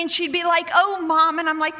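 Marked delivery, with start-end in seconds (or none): 0.7-1.4 imitating exasperated daughter. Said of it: "she'd roll her eyes at me".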